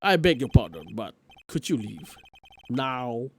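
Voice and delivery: evasive, apologetic elder brushing him off; flustered old lawyer. Acted. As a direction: dodge the question, then show him out.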